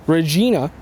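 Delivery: Regina with an "ee" middle, ruh-ZHEE-na; Latin-derived pronunciation. Shown as a demonstration. Reporter tracing the city name's history, Regina said with "ee". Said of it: "the Latin pronunciation".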